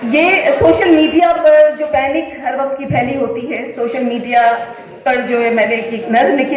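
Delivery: usual speaking voice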